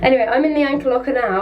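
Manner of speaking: echoing in a small metal locker; boxed-in echoey room sound; anchor locker echo. Real, not acted. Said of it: "as you can hear by the echo".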